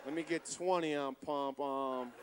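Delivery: low, slow, spaced-out stoner at the counter; dazed stoner buying gas; stoned customer. Retold or imitated. Stoned guy at gas station.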